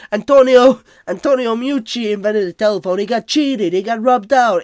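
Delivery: loud, high outraged imitation; Tony ranting. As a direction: insist hotly he got cheated. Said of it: "He's like".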